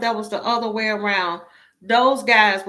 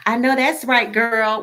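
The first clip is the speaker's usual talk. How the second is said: a light imitation of a fake twang, a bit louder; mock put-on twang; 4 dB louder than usual. Mocking a coworker who puts on a twang with her. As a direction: mildly mimic a coworker's borrowed twang. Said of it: "they got a twang and a, and a movement in their neck".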